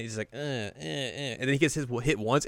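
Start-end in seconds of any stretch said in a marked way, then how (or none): 0.3-0.8 small, soft imitated grunts; barely-hit grunts. Host imitating someone barely getting hit, soft grunts. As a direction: feeble little "uh" at each hit. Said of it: "like, barely getting hit".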